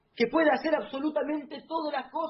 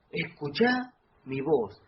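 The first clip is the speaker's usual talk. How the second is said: slow, louder restatement of Escuchá mi voz; Escuchá stressed, slow and deliberate; repeated emphatically; 5 dB louder, slower than usual. Shown as a demonstration. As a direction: lean on Escuchá, slow and firm.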